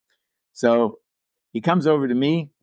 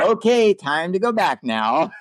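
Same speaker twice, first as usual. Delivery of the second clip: awkward hurry-up; 10 semitones higher, 3 dB louder, slower than usual. Retold or imitated. Hurrying wife away, awkward.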